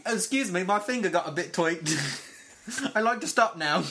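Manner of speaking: jokey mock Sin Cara accent, lightly put on. Podcast host mocking the wrestler's finger injury, joking Sin Cara accent. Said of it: "That's my Sin Cara accent".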